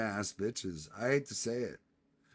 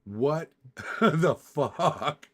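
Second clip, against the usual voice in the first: much higher, louder laughing what the fuck; baffled outburst; 4 semitones higher, 6 dB louder than usual. Real, not acted. Streamer staring at a photo, high loud bafflement. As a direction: gasp it out, completely thrown.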